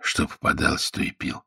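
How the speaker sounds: soft, spent near-whisper. A narrator's reading. Prisoner admits drinking anything going, whispering. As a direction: let it fade away weakly. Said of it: "прошептал Спирька".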